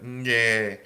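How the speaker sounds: drawn-out mock baby's cry; baby cry imitation. Shown as a demonstration. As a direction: imitate a baby calling for its mother. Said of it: "a baby cry".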